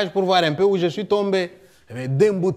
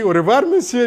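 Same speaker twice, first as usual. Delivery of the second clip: higher and louder, a bright sing-song farewell; cheerful goodbye; 8 semitones higher, 5 dB louder than usual. Retold or imitated. Pichibanda bidding the puzzled neighbour farewell, chirpy and loud. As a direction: leave him stunned with a chipper goodbye.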